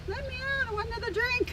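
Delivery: put-on high, loud, pleading drunk prisoner; town drunk. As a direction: whine from the jail cell like a drunk. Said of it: "Town drunk right now".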